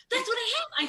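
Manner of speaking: ecstatic realization. Real, not acted. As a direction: top the first take, almost squealing. Repeats, even more worked up.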